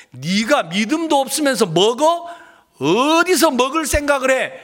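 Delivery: mock scornful rebuke; cold-hearted scolding. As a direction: scold as if denying someone food. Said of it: "하나님이 매몰차게 막 우리를 무시하고". (매몰차게 꾸짖는 흉내)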